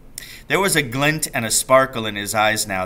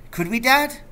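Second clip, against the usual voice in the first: eager; 11 semitones higher than usual. Acted. Boy eager for midnight feast.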